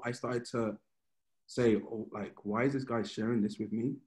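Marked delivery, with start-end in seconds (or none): 1.8-4.0 inner murmur. Retold or imitated. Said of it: "murmuring in my heart".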